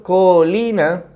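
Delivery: "Colina" said slowly as one smooth word. Shown as a demonstration. Teacher modelling the smooth "Colina". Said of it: "es como más suavecito".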